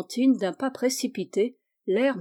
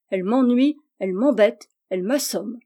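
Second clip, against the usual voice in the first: mock exasperation; 5 dB louder than usual. Child's insulting list climax.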